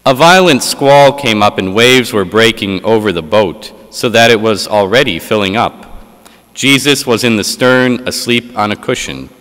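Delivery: solemn liturgical reading voice; Gospel reading. Acted. Proclaims the Gospel at Mass.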